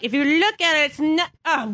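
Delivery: put-on Irish accent; Irish-accented grandmother. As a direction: imitate an Irish grandmother making excuses. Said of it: "an Irish accent".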